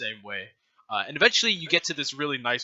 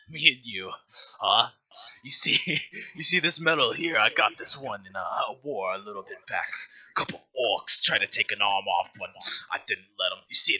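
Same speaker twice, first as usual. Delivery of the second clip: lower, oily veteran bragging; lecherous fat guy; 5 semitones lower than usual. Acted. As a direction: fat patron bragging about his war medal to the dancer. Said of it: "It's the voice".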